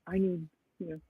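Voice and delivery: hint of a Russian accent. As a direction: tell it with mock Russian phrasing. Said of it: "That Russian joke".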